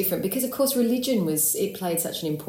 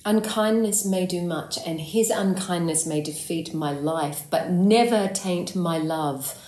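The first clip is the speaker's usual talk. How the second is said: heartfelt Shakespearean verse, slowing on the last phrase; dramatic, drawn-out declaration of love; pouring out. Acted. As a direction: let the hurt pour out in measured verse. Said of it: "it kind of comes pouring out of her".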